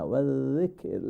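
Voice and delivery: "ওয়াজিকির" softly, with thin z, k and r; light letters. Shown as a demonstration. Teacher correcting heavy letters, light "ওয়াজিকির".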